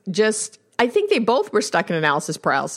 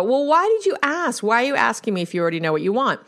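higher, fast mock retort; hammed-up annoyed partner; imitating exasperation; 4 semitones higher, faster than usual. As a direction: poke at the partner's contradiction. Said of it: "the partner will go".

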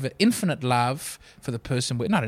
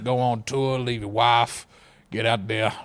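imitating Jake the Snake; 6 semitones lower than usual. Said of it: "I don't think he had that accent".

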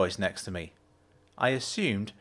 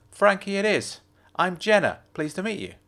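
Jenna's voice; 8 semitones higher than usual. A narrator's reading. Jenna's voice in dialogue.

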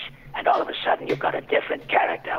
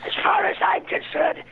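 hissing, breathy voice of a cynical, arrogant demon who snaps into a shout; hateful demon. Acted. Improv prompt for a hateful demon, hissing contempt. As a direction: sneer every word like a demon who loves deceit. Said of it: "A, a, a hateful demon?".

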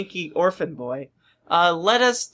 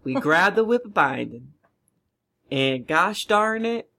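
put-on Southern accent. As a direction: talk like Hank Hill. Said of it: "Tim watched one episode of King of the Hill".

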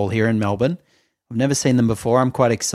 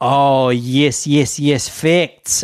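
Zane Lowe impression; 3 semitones higher, 3 dB louder, much slower than usual. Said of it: "he kind of goes".

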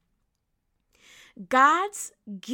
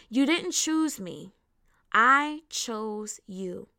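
"I" leaned on, then "chose you" slowly; weighty scripture reading stressing "I"; emphatic reading; 3 dB louder, slower than usual. Shown as a demonstration. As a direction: read it deliberately, pausing before "I chose you". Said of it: "I want to emphasize on the very first two parts".

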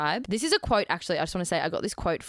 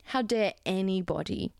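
mock indignant diva; 4 dB quieter than usual.

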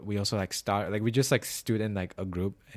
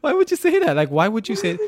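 much higher and louder, incredulous; shocked disbelief; 13 semitones higher, 11 dB louder than usual. Real, not acted. Friend venting about the neighbour's comment, loud shocked outburst. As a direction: cry out in disbelief. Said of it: "I was so shocked".

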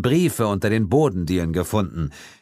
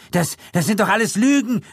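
calling out; 13 semitones higher than usual. A narrator's reading. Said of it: "rief Gildritch".

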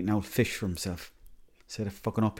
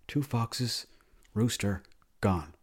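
terse dad; 3 dB quieter, much slower than usual. Retold or imitated. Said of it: "That's not how you talk normally".

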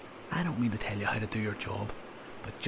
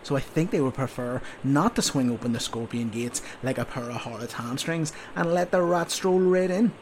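a louder sergeant scolding a recruit; berating sergeant; 3 semitones higher, 5 dB louder than usual. Acted. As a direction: tear into the sleepy soldier. Sergeant berating sleepy soldier.

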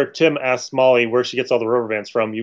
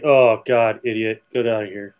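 disdainful; 3 semitones lower than usual. Retold or imitated. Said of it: "disdain on her face".

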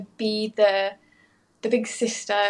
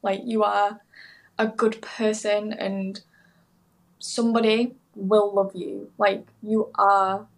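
through tears; slower than usual. Real, not acted. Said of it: "I'm sorry, I'm crying".

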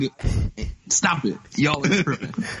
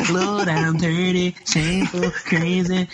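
slow, higher, whining plea; whiny voice; 4 semitones higher, slower than usual. Retold or imitated. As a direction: whine it like a sad crooner. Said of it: "in the most whiny voice".

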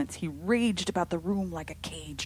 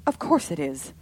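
suspicious; 7 dB louder than usual. A narrator's reading.

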